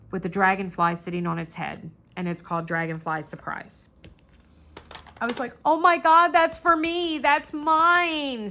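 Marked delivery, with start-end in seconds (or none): 5.6-8.5 high, loud burst of delight; thrilled outburst; excited claiming. Retold or imitated. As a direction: claim it eagerly, voice jumping up.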